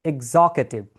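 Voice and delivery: executive said as "eg-ZOK-e-tiv"; slow model of executive, stressed on ZOK; correct pronunciation. Shown as a demonstration. Teacher modelling the word for learners, executive as "eg-ZOK-e-tiv". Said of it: "The correct way to pronounce this word".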